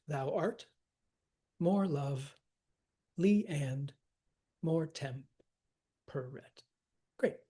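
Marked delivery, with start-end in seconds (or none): 0.1-5.2 long pauses between two-syllable feet; separated into feet. Shown as a demonstration. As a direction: chop the line into iambs, pausing after each. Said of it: "separate it into the feet".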